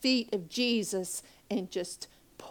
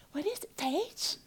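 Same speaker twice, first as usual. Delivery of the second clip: gentle friend; 8 semitones higher, 4 dB quieter than usual. Retold or imitated. Friend Lee voiced gently.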